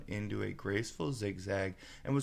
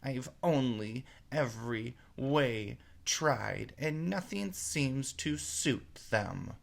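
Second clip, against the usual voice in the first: slow, higher, half-sobbed lament of a pigeon; sobbing; 4 semitones higher, slower than usual. Acted. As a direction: plead through a mild sob. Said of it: "added with a kind of sob".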